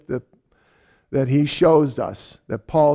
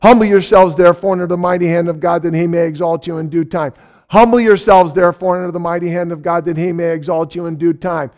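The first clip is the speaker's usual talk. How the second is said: louder, quick repeated recitation; looping verse; 2 semitones higher, 5 dB louder, faster than usual. Retold or imitated. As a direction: hammer the verse round and round. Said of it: "it was repetitive".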